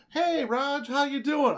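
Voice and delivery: "Hey, Raj" read high and loud, mock hostile; pissed-off reading. Shown as a demonstration. Host reads a friendly text as a pissed-off mock attack. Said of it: "You're a pissed off at me" voice".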